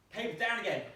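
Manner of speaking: oh no, again; dismay. Real, not acted. Teacher sees the paper down again, high dismay.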